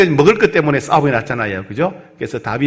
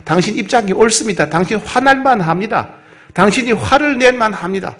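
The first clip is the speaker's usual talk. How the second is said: higher, sincere affirming voice; mirroring reassurance; 5 semitones higher than usual. Retold or imitated. Calming an angry person by mirroring, higher and sincere. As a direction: agree with him gently to calm him. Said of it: "거울처럼 비춰주는 거예요".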